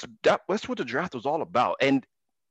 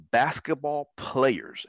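slow, drawn-out "players" with a lift in pitch; stress on players; 3 semitones higher, much slower than usual. Shown as a demonstration. Host reading his own tweet aloud, stretching and lifting "players" for emphasis. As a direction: lean on the word "players" as you read it. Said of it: "and I emphasize the word players".

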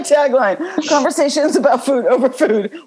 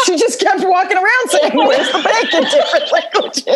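laughing; 5 semitones higher than usual. Real, not acted.

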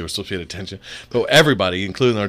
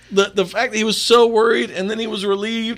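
still laughing; 10 semitones higher than usual. Real, not acted.

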